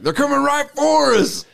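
high, put-on hunter voice; a light South Park hunter voice. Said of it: "they were like".

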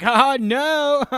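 high loud mock yelp of alarm; startled yelp. Woman feeding alligators yelps in alarm, loud mock yelp. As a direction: yelp it as the gator lunges out. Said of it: "she's like".

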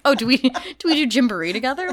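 high, fast mock-friendly chatter; chirpy small-talk voice. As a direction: gush like a stranger making small talk.

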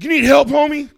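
high, bright mock-friendly offer; mock polite high voice. Drunk guy offers help to a tweaker, mock polite. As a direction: put on a high sweet voice to a stranger. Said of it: "It's like".

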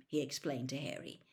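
usual speaking voice

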